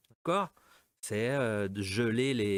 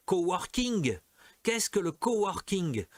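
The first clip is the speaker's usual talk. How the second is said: higher, playful French-accented "coworking"; French speaking English; 6 semitones higher than usual. Shown as a demonstration. Teacher joking about French people speaking English, French accent. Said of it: "le français qui parle, qui parle anglais".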